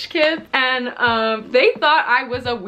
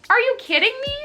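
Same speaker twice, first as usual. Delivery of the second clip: outraged disbelief; 11 semitones higher, faster than usual. Real, not acted. Outraged at their prank.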